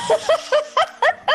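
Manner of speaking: high-pitched burst of laughter; high cackling laugh. Real, not acted. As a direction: laugh in a quick, high giggle. Host laughing as stream opens.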